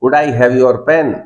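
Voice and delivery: each word spoken very slowly and clearly; teacher slows right down to demonstrate the request; slow model sentence. Shown as a demonstration. Teacher shows class how to ask politely, very slow. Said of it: "मैं दिखाता हूँ आपको".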